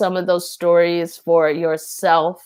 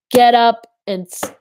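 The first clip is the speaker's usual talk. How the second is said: firm urging; 5 semitones higher, 5 dB louder than usual. Retold or imitated. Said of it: "He's not screaming at you".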